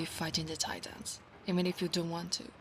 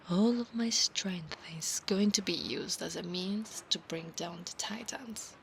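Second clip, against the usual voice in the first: hushed whisper. Acted. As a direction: whisper the promise close to his ear. Whispered roleplay.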